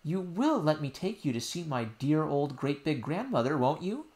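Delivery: put-on high child voice, pleading; a little girl explaining earnestly; insistent princess. Princess telling nurse what happened, high and earnest.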